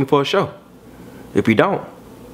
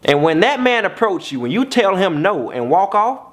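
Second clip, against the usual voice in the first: ordinary talk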